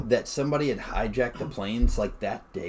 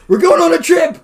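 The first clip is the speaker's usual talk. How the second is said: high, loud sing-song cheer; hammed-up high excited shout; excited announcement; 14 dB louder than usual. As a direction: announce the trip like a kid.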